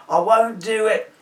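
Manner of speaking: loud, high, slow protest; cries out. A narrator's reading. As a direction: cry it out in protest. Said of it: "he cries".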